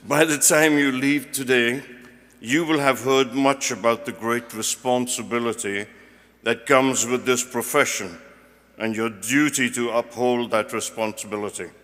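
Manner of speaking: projected ceremonial delivery in deliberate phrases; formal podium reading; formal speech. Real, not acted. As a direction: read a prepared address to graduates. Reads out prepared commencement address.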